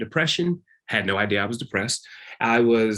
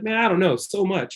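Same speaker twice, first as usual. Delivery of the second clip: overwhelmed high reply; 8 semitones higher than usual. Retold or imitated.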